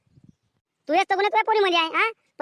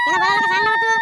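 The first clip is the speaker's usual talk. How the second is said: shrill high demand, much louder; angry demand; 5 dB louder, faster than usual. Acted. Mother yelling at daughter to confess. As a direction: press her hard, voice jumping high.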